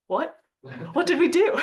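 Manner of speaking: high, laughing what did we do; a team feigning innocence to an accusing country, mock surprised; mock innocent surprise. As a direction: play dumb, half laughing.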